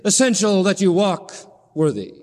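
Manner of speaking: a mild, detached statement; cold. Shown as a demonstration. Preacher shows a cold Paul stating the rule, mildly detached. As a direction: say it coolly, without feeling. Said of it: "He doesn't just coldly say".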